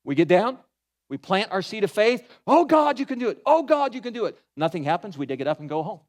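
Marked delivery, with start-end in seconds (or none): 2.5-4.4 mock pleading prayer.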